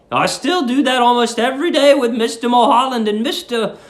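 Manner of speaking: lightly voiced sweet old lady; sweet landlady. Landlady's dialogue read aloud.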